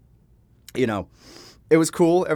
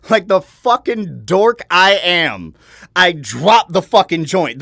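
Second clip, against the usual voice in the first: laughing; 5 semitones higher, 8 dB louder, slower than usual. Real, not acted. Laughing at own clumsiness.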